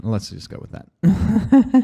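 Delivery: sarcastic aside. Acted. Sarcastic aside about Putin.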